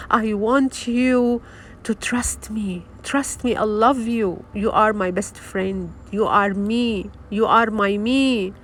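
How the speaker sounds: whisper-near loving words to your own soul; soft little voice. Shown as a demonstration. Speaking lovingly to his own soul, soft tender voice. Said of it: "you have to talk in a very little voice".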